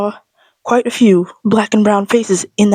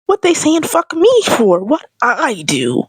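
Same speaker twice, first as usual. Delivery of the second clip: mock outrage; 5 semitones higher, much slower than usual. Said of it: "I'm just like".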